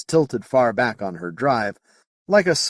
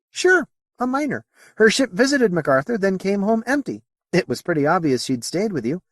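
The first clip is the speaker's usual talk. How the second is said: alien character; 9 semitones higher than usual. Acted. Moti tells Potter of the miner, high alien voice.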